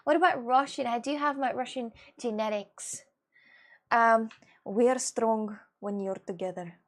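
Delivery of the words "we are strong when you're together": measured, emphatic imitation of a game character; Sova impression. Streamer imitating a Valorant character for viewers, Sova impression. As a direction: attempt Sova's heroic line in a put-on voice. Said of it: "he said that somehow".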